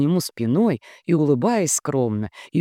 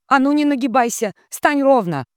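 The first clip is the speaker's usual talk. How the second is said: high, loud sharp rebuke; mother snapping; 10 semitones higher, 5 dB louder than usual. Acted. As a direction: bark the order at her. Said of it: "прикрикнула на неё мать".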